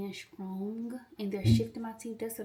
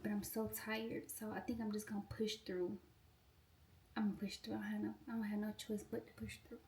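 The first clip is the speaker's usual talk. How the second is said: tired; 7 dB quieter than usual. Real, not acted. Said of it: "I'm tired".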